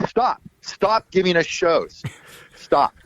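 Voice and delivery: high, slow, emphatic plea; mock pleading. Band telling their agent to stop booking, mock pleading. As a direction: act out begging someone to stop.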